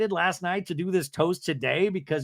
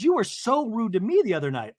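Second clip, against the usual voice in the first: mock indignation; 6 semitones higher than usual. Acted reality-show quarrel, Brittany accusing.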